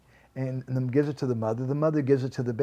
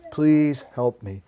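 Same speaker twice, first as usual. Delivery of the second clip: Please drawn out and louder, begging; slower, louder plea; 5 dB louder, slower than usual. Acted. Devotee repeats the prayer, now slower and louder. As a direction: lean in and beg slowly. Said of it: "Sometimes we cry".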